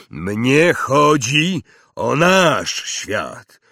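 slow, loud emphatic voice; emphatic giant. Acted. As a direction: drive home each world. Hagrid insisting.

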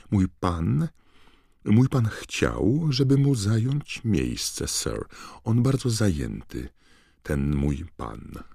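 high, slow stammering elf; a nervous elf covering for her master; high halting elf voice; flustered house-elf. Acted. Voices Winky.

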